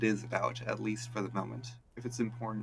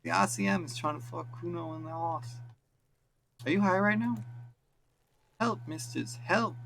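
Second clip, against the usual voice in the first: yelling at windows; 8 semitones higher than usual. Acted. Boy rolling hard, yelling at the windows, high shout. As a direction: yell it up at the windows. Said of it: "yelling at the windows".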